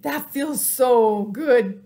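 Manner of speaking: slow breathy whisper of relief; blissful sigh. Acted. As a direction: sigh it out in pleasure. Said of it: "said Pig".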